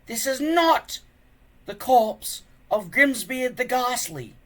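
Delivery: put-on an old man steadying the room, slowly; old man calm. A narrator's reading. Old Wrinkly calms the panicking tribe in a slow old voice. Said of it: "said Old Wrinkly".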